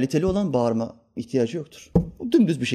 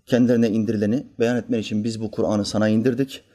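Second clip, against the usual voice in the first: usual speaking voice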